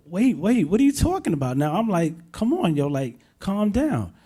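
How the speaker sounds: frantic plea to calm down; alarmed, pleading. Retold or imitated. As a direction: caught off guard, trying to steady her. Calming panicking cousin on phone.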